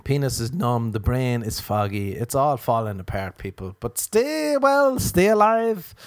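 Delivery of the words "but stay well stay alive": high, slow sing-song plea; mock lofty plea. Comic urging listeners to stay well, high and drawn out.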